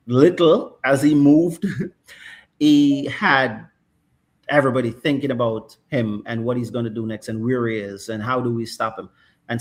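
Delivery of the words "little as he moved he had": slow, louder words broken by a laugh. Real, not acted. Host laughing about how little Messi moved yet dominated. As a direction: chuckle through the line.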